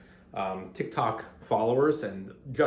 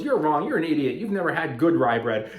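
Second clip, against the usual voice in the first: loud, higher put-down from a comment troll; mock angry commenter; 4 semitones higher, 4 dB louder than usual. Commenter scolding the video maker, mock angry loud. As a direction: bark it like an online know-it-all. Acted comment section fight.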